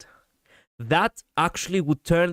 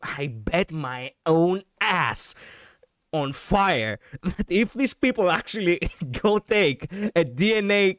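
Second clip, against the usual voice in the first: laughing; 5 semitones higher, slower than usual. Real, not acted. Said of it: "laughing through own bet".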